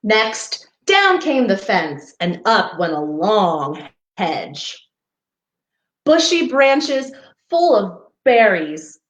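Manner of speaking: gentle storybook read-aloud; reading to children. Acted. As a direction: read it like a picture book for little ones. Reading picture book to children.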